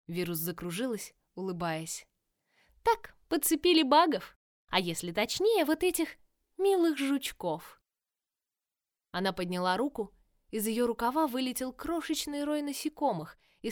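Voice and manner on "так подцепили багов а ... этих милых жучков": loud, gleeful taunting villain voice; mock the heroes with cheerful menace; playful villainess. Villain Virus speaks.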